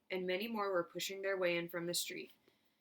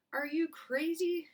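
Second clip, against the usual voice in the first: high, loud, slow outraged shout; 10 semitones higher, 5 dB louder, slower than usual. Acted. Woman near Charlie shouting high and slow in outrage. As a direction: shout it at him in disbelief. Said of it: "shouted a woman".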